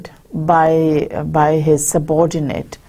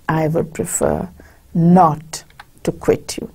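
calm and unhurried. Acted. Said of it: "gives a very calm and unhurried answer".

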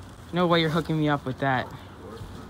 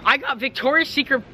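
raised, thrilled reveal; pitched up real delight; excited; 6 semitones higher than usual. Real, not acted. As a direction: gasp it out like an unexpected jackpot. Opening surprise gift on camera.

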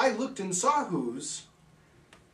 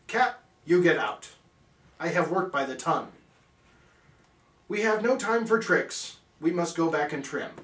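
angry order. Acted. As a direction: throw the cat out with force. Narrator ordering the cat out.

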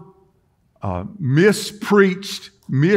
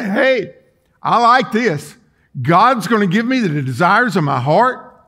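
mock eagerness; 3 semitones higher, 3 dB louder than usual. Acting out eager listeners of verse.

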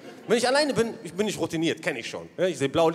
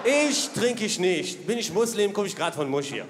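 slow, lightly voiced protesting dad; father protesting. Father telling police he is Muslim, slow protest. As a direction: drag it out, offended. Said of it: "Mein Vater so".

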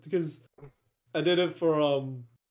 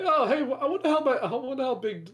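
higher, airy wondering; mock curious musing; 9 semitones higher, faster than usual. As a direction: wonder aloud with fake innocence. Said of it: "I'm just like".

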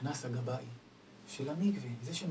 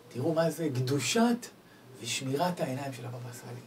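normal talking voice

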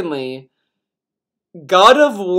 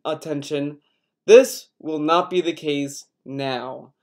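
acting voice. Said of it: "I'm gonna do the acting voice".

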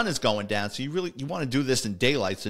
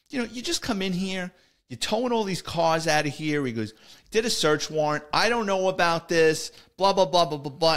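higher-pitched imitation of a griping lieutenant; mock complaining; 5 semitones higher than usual. Lieutenant scolds detective over towed cars, mock complaining. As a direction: rattle off a retold complaint, pitched up.

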